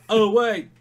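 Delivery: high, loud laughing self-correction. Real, not acted. Cohost catching his own geography blunder, laughing.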